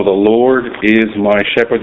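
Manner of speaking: weight on "my" before shepherd; stress on MY. Shown as a demonstration. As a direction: lean gently on the word "my". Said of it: "The emphasis on the word "my".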